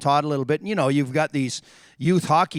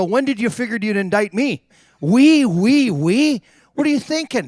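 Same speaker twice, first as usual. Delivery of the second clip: louder, higher, incredulous challenge; imitating an exasperated telling-off; retold indignant confrontation; 6 semitones higher, 5 dB louder than usual. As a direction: demand an explanation, pitched up. Retold confronting friend over the newspaper.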